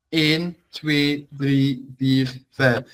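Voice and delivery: Dutch numbers one to five, said clearly one by one; teacher counting "Eén, twee, drie, vier, vijf" in Dutch for the class. Shown as a demonstration. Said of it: "like the number one".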